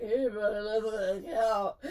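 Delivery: laughing fake seduction; mock come-on. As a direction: imitate a clumsy pass, stretched out. Mock drunken come-on to crush.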